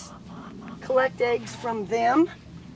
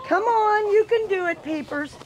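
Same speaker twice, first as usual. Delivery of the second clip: coaxing; 8 semitones higher than usual. Real, not acted. Coaxing the rooster along.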